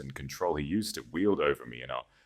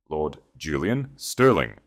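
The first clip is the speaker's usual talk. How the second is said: loud announcement; 4 dB louder, slower than usual. Acted. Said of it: "Thomas said it loudly".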